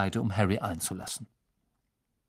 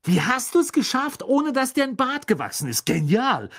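much higher, louder, thrilled; booming Fred; 14 semitones higher, 5 dB louder than usual. Acted. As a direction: boom it out, clearly impressed. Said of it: "polterte Fred".

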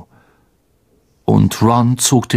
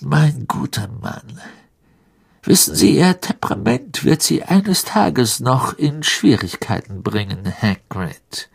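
controlled, condescending reply; lightly voiced Lucius Malfoy; 3 semitones higher than usual. Malfoy answers the outburst, softly.

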